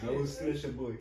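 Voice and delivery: put-on Russian fighter accent; Khabib. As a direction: mimic a Russian fighter's threat with a thick accent. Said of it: "Russian accent".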